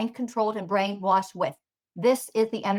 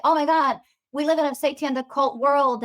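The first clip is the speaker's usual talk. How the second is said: higher, louder imitation of shocked discovery; mock alarm; 4 semitones higher, 4 dB louder than usual. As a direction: mimic someone breathlessly announcing a revelation. Mimics a newly alarmed believer.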